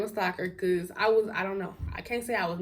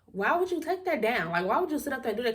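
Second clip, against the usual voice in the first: mildly indignant, higher-pitched retort; raised-pitch replay of an argument; indignant scolding; 4 semitones higher than usual. Retold or imitated. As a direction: act out telling him off. Acts out telling him off.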